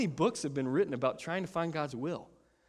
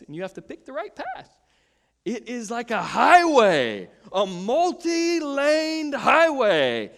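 rising passionate pastor; 7 semitones higher, 8 dB louder than usual. Retold or imitated. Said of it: "He's like".

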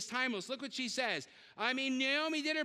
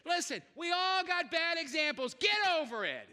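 stern preaching; 3 semitones higher than usual. Real, not acted. Pastor scolding congregation.

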